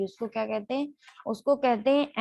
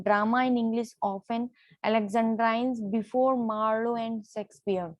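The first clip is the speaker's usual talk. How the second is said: slow dictation; much slower than usual. Shown as a demonstration. Teacher dictating a definition.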